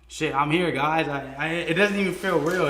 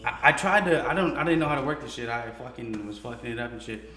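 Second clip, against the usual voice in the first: talking while chewing gum; words around a wad of gum; 4 semitones lower than usual. Real, not acted. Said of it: "stop chewing that gum like that".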